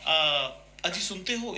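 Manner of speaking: lightly imitated loving wife calling her husband; affectionate mother. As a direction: call your husband sweetly, gently. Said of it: "इतने प्यार से बोला". (प्यार से पुकारती माँ की हल्की नकल)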